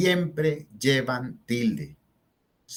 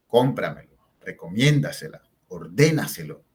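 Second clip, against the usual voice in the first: Cómpramelo, recomiéndasela, ordénaselo, each punched on CÓM, MIÉN, DÉ; word by word, leaning on the accented syllable of Cómpramelo, recomiéndasela, ordénaselo; CÓM-pramelo, reco-MIÉN-dasela, or-DÉ-naselo; strongly marked early stress; 4 semitones lower than usual. Shown as a demonstration. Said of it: "el acento mucho, muy marcado".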